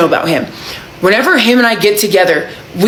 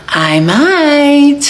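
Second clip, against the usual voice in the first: higher, playful "I might"; cheeky tease; 6 semitones higher than usual. Retold or imitated. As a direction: toss it off coyly. Cheeky reply.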